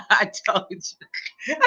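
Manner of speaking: soft, very slow, breaking into laughter; laughing I-told-you-so. Real, not acted. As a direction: let it dissolve into a laugh. Cracks up while gloating.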